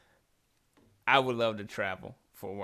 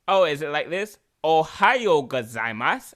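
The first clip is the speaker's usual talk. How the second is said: put-on sexy Japanese accent; 3 semitones higher, 10 dB louder than usual.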